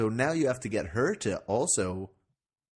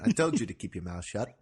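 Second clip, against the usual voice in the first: weak attempt at an Aussie accent; failed Australian accent. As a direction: try an Australian accent and miss. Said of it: "I can't do the accent".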